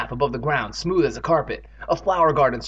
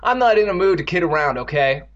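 raised, irritated voice; impatient snap; 4 semitones higher, 5 dB louder than usual. Acted. Evan tells Andy off for joking, impatient. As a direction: shut down the joking. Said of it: "Evan snapped impatiently".

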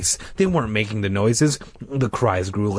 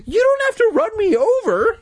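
very high, loud furious yell; angry shout; 4 dB louder than usual. A narrator's reading. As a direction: yell it after the driver. Shouting after departing bus.

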